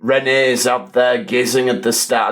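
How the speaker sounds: a hint of French accent; light French accent. Describing the nephew's dream in a light French accent. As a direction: slip briefly into a French accent. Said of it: "I don't know why I'm doing a French accent".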